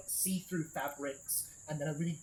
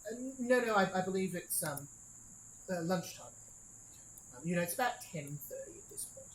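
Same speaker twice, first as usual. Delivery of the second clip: lightly voiced clerk; 4 semitones higher than usual.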